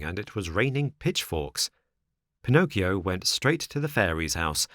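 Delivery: usual speaking voice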